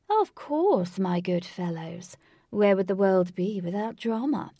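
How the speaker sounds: loud, theatrical villain with stretched-out words; booming. A narrator's reading. Villain hailing his foes with love of drama, booming. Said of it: "boomed Lutz's voice".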